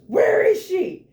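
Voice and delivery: high, slow mock shout; mock gander shout. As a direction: bellow it like a furious spirit. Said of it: "And he goes".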